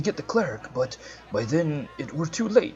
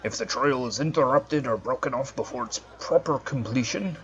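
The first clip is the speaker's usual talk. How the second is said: solemn judge; 3 semitones lower, 3 dB quieter than usual. Acted. Voicing the NPC judge.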